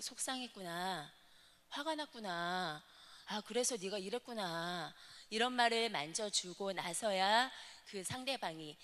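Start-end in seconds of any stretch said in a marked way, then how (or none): 0.0-4.9 softer, gentle validating words; calmly name the child's feelings back to them; soothing empathy. Shown as a demonstration. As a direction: coach showing tender words for an upset person. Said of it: "감정을 만져주는 언어".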